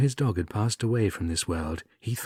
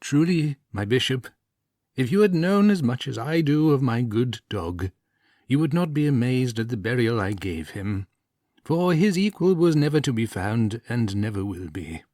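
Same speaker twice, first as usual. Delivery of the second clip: earnest plea; 4 semitones higher, 3 dB louder than usual. Acted. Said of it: "the priest spoke".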